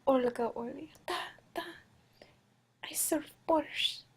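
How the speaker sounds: put-on soft, halting Russian accent; Olga Orly. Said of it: "I think this is Russian".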